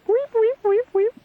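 very high squeaky peanut-man voice; tiny creature squeak. Acted.

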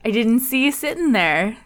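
lightly bright, overly polite host greeting; customer service voice. Pretend. Host greeting listeners in a mock customer service voice. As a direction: greet listeners like a chipper help-desk clerk. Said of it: "That's my customer service voice".

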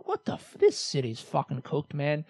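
soft, half-whispered grumble; quiet grumbling aside; under-breath grumble. Real, not acted. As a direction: mutter at the weather under your breath. Muttering at the weather.

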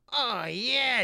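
loud, high, relishing cry; gleeful lewd dwarf. Acted. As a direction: crow it with lusty glee. Naked dwarf gloating on bed.

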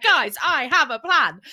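mock rallying call. Acting herself rallying survivors in apocalypse.

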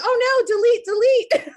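high, loud laughing delete delete; laughing panic. Retold or imitated. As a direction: take it back in a giggling panic. Retracting her own words.

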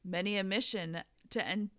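flat, dry, expressionless delivery; deadpan. Acted. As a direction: say it bone-dry. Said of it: "said in a deadpan voice".

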